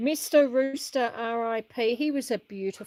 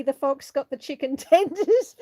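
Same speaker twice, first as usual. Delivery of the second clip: laughing; 4 dB louder than usual. Real, not acted. Laughing at viewer's joke.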